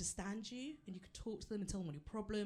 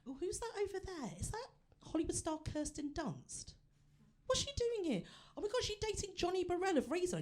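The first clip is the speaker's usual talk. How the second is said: starstruck; 10 semitones higher than usual. Pretend. Spotting celebrities in pub.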